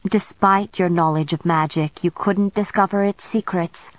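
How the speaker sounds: scornful jab at the vampire. Acted. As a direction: sneer the words out. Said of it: "The scorn in the witch's voice was unmistakable".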